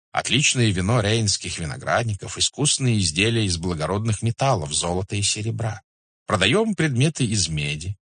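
lightly voiced merchant, lively and courteous; купец-ганзеец. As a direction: present your trade proudly to a khan. (слегка сыгранный учтивый купец)

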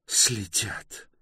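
high-pitched, indignant echo; flaring up. A narrator's reading. Bayta reacting to being followed, flaring up. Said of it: "вспылила Байта".

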